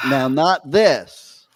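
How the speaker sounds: slow, loud "now, not this"; stressed contrast. Shown as a demonstration. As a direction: lean on "this" slowly. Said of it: "not that, but that".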